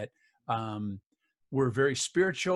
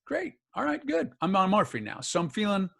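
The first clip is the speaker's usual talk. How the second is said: loopy on morphine; 6 semitones higher, 6 dB louder than usual. Retold or imitated. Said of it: "And I'm like".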